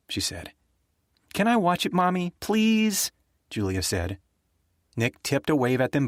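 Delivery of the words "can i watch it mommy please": put-on pleading little girl. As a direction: wheedle like a small child begging. Child begging her mother.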